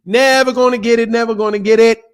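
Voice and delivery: mock-triumphant chanting; taunting. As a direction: hammer out the taunt loudly. Taunting repeated catchphrase to doubters.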